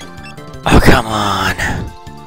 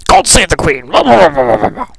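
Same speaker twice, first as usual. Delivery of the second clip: lightly posh British voice, a touch hammed-up; fake British accent; 4 semitones higher than usual. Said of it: "it'll be all posh and fake British".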